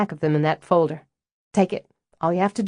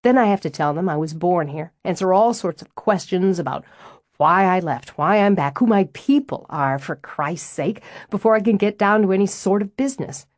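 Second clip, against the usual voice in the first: riled up; 2 semitones higher than usual. Acted. Stella, fed up with being called the Yankee, getting riled. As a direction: vent it, winding up until it bursts out. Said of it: "looks to me like you loosen up just fine when you get riled enough".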